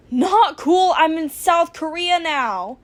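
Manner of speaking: loud, high panic; panicked. Acted. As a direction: blurt it out in alarm. Panicked reply.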